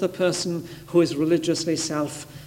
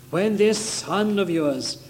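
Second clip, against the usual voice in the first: slow, mildly scornful retelling; callous, cruel; slower than usual. Retold or imitated. Elder brother disowning his brother to the father, mildly callous. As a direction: draw it out with mock disdain. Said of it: "cruel word".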